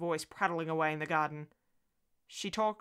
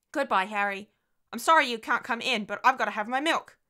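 put-on higher, louder child's farewell; little-girl voice; 5 semitones higher, 7 dB louder than usual. Daughter leaving her invisible friend, child's voice calling. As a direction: call goodbye as a small child.

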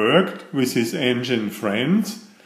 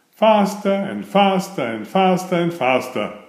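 building speed; 5 semitones higher than usual. A narrator's reading. Engine speeding up.

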